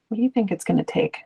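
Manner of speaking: fast, eager, confiding tip; quick salesy hint of intrigue; hot stock tip tone. Shown as a demonstration. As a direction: pitch it like an insider secret, quickly. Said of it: "like, hot stock tip tone".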